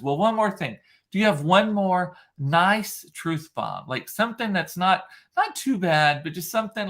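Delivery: put-on sweetly egging the child on; imitating Hoda. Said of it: "And Hoda goes".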